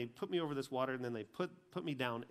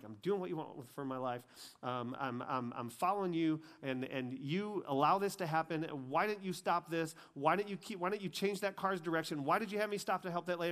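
retold angry pleading, rising higher; mad at God; 4 semitones higher, 4 dB louder than usual. Man reliving his complaint to God after the accident, mad. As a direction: build into an aggrieved challenge, pitched up. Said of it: "I'm mad at God".

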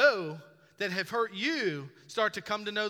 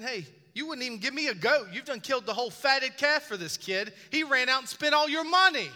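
1 angry brother; 7 semitones higher, 6 dB louder than usual. Retold or imitated. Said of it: "He's angry".

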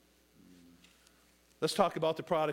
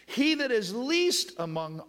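higher, louder, drawn out on least; emphatic preaching; 7 semitones higher, 4 dB louder, slower than usual. Acted. Preacher stressing the key word, high and loud. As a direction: punch least to the congregation.

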